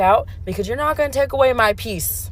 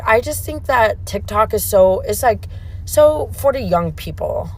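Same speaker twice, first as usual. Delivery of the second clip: slow, drawn-out mock of a snooty coworker; imitating condescending coworker; slower than usual. Mocking the coworker who dismisses TikTok, slow and condescending. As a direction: stretch each word out like she's talking down to you. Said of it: "And she's, like, talking like this".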